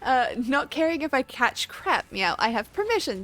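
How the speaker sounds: reading that slides into upper-class British; upper-class British drift. Real, not acted. Streamer reading a chat compliment aloud, drifting into upper-class British. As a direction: slowly shift into a posh British accent. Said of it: "slowly shifted into more of, like, an upper class British accent".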